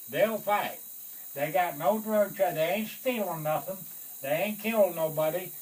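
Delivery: passionate defense. Retold or imitated. Sergeant loudly defending his picks to the colonel. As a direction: press the case hard and fervent.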